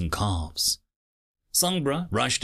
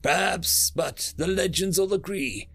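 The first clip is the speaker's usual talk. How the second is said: raised, impassioned speech voice; fiery passion; 8 semitones higher than usual. Acted. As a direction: rouse the crowd with fire. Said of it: "The woman's passion was fiery".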